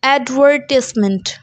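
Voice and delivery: British advertisement stressed on VER; British pronunciation. Shown as a demonstration. Teacher showing the stress, British pronunciation. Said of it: "The stress is on were".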